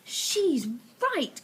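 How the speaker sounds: crying out. Acted. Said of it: "cried another voice".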